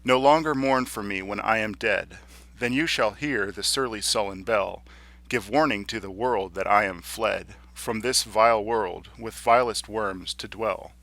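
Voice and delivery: measured verse, each stressed beat falling regularly; deliberate, evenly accented poetry reading; even iambic recitation. Shown as a demonstration. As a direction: recite it smoothly in steady iambs. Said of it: "more even-sounding quality to them".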